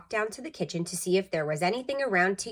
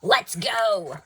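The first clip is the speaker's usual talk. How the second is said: hurried burglar; 4 dB louder than usual. A narrator's reading. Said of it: "said the second burglar".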